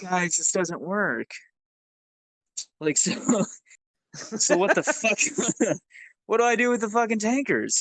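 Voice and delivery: slow, laughing disbelief, pitched high; exasperated laughing. Real, not acted. Telling friends about his useless tanker team, laughing in exasperation. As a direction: laugh through the frustration, drawn out and high.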